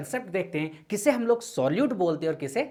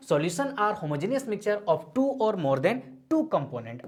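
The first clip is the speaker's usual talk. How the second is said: very slow, every word spaced for note-taking; slow dictation; much slower than usual. Shown as a demonstration. Teacher dictating the definition to students, very slow. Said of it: "क्या है solution?".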